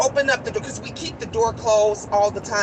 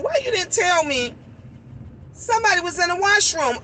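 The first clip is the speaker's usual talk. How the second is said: higher-pitched retold complaint; reproachful question; 5 semitones higher than usual. Mother questioning Angel about the washroom, reproachful. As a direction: ask it high, put out at not being warned.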